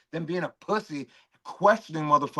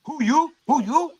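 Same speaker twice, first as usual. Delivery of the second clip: mocking taunt; 11 semitones higher, 4 dB louder than usual. Real, not acted. Taunting a chatter.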